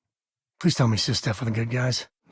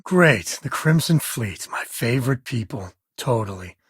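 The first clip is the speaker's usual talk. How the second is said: sarcastic. Acted. Companion mocking the Crimson Fleet, sarcastic deadpan. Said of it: "Pick up on the sarcasm there?".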